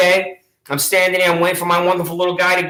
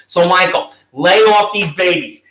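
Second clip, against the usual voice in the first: louder, slow and scolding; scolding shout; 5 dB louder than usual. Real, not acted. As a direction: tell him off, drawn out. Scolding the officer directly.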